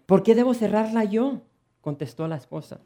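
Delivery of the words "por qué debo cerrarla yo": high, loud indignant retort; indignant wife. Acted. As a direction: snap back at the husband. Bride retorts in quarrel.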